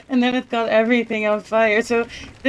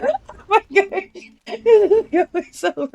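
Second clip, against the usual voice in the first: laughing; 5 semitones higher than usual. Real, not acted. Laughing at disaster.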